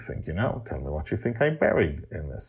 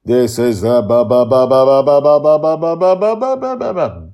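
loud ba-ba-ba climbing higher; rising stuttered build-up; 8 semitones higher, 14 dB louder than usual. Acted. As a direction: build the suspense, stutter upward. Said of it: "stuttered build to "biggest".

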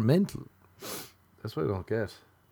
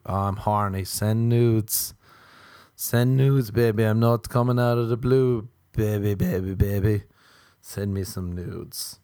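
mock pushy texter; 6 dB louder than usual. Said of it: "a girl being like".

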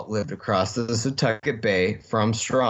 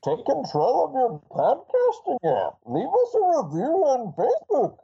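high, theatrical masked villain voice; exaggerated villain sing-song; Bane impression; 11 semitones higher than usual. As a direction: sign off as a hammed-up, high-pitched Bane. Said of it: "take us out as Bane".

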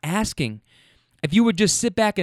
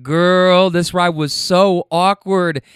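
emphatic complaint; 5 dB louder, much slower than usual. Retold or imitated. Telling roommate about awkward ride.

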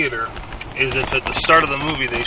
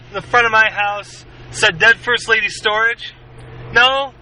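Jules monologue; 9 semitones higher than usual. Pretend. Quoting Pulp Fiction monologue.

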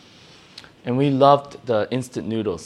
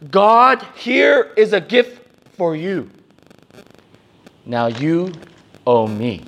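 Cain bargaining; 5 semitones higher, 5 dB louder, slower than usual. Acted. Voicing Cain's proud offering.

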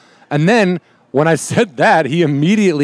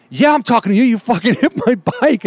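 higher, lightly voiced tough guy; mock biker snapping back; a hint of a menacing biker; imitated angry biker; 8 semitones higher than usual.

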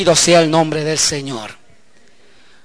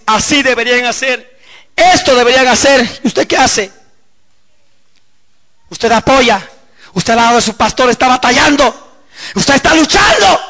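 raised, higher preaching voice; impassioned preaching; 6 semitones higher, 4 dB louder than usual. Acted. Preacher challenging onlookers in the church, impassioned preaching. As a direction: challenge the congregation, building to a shout.

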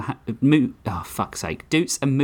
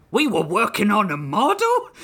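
high, disbelieving cry; incredulous shout; 10 semitones higher than usual. Acted. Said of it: "Ludwig shouted incredulously".

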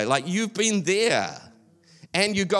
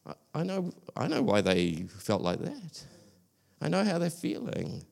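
softer, hushed voice of knowing; lightly voiced God, quiet and understanding; softly knowing God; 6 dB quieter than usual. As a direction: say it gently, like you've seen it all. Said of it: "God's like".

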